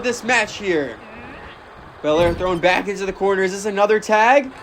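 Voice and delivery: lively ringside play-by-play; wrestling commentator. Acted. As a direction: call the match as it happens.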